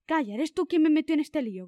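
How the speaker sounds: understated grumbling retort; embarrassed growl. Acted. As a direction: snap back in embarrassment. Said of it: "gruñó el zorro avergonzado".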